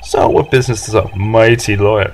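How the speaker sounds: lightly voiced pompous executive; Red White. Executive introduces himself to lowly lawyer, arrogant. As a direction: talk down with grand self-importance. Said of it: "this guy's arrogance meter is off the scale".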